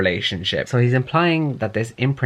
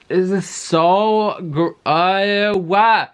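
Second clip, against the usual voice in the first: high, drawn-out outburst of disbelief; exasperated; 7 semitones higher, 4 dB louder, much slower than usual. Real, not acted. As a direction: splutter it out slowly, pitched way up.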